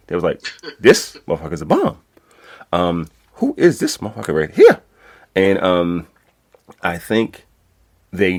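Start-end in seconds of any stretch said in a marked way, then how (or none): 0.8-4.8 louder, raised, impressed hype; hyped-up coworkers. Retold or imitated. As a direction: mimic coworkers cheering him on loudly. Coworkers hyping him up.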